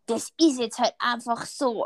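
mildly imitating a fed-up mother's curt reply; brusque, annoyed. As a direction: shut the question down, mock irritated. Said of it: "so barsch und so voll genervt".

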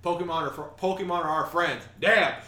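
high, loud, chirpy cheer; excited cheer. Retold or imitated. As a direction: cheer it out like a fan. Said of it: "Be like".

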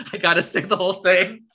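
breaking into laughter mid-sentence; words squeezed out through giggles; laughing. Real, not acted. Laughing while insisting on reading the whole message to her friend. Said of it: "Keep going".

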